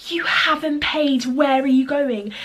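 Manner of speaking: a shop worker yelling at customers leaving; accusing shout. Retold or imitated. Shop woman chasing them out.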